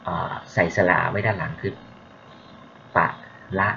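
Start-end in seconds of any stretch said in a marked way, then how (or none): 3.0-3.7 ปะ and ละ said as two separate slow syllables. Shown as a demonstration. Lecturer spelling out a Pali word for students, syllable by syllable. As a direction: split ปะ ละ into two clear beats. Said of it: "ออกเสียงว่าปะละ".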